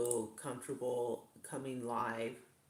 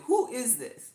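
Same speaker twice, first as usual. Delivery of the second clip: puzzled viewer; 11 semitones higher, 10 dB louder than usual. Retold or imitated. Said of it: "you guys would be like".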